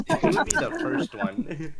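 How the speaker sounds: mock high tease. Teasing a friend who swears he'd never, in a mock high voice. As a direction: repeat the tease up high to needle him.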